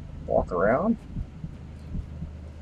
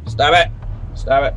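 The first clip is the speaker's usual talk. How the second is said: yelling stop; 2 semitones higher than usual. Real, not acted. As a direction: snap it out to make it back off. Yelling at creature in game.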